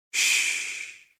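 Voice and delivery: sharp whispered shush; hushing shh. A narrator's reading. Narrator hushing a startled listener, whispered. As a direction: hush them at once.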